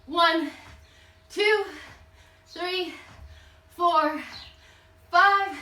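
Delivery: high, punched count during jump squats; calling out reps. Real, not acted. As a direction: call each rep out with effort. Coach calls out exercise reps while jumping.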